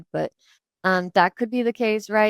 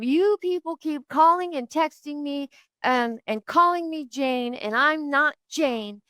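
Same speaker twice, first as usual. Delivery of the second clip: higher, slow, imitating a fed-up caller; mock angry rant; 6 semitones higher, slower than usual. Caller complains about daily calls, higher mock rant. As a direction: drag out the complaint like an indignant man. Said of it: "his rant".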